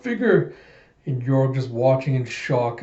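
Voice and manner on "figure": high-pitched retold cry of a name; imitated anguished call. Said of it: "Alita just crying out".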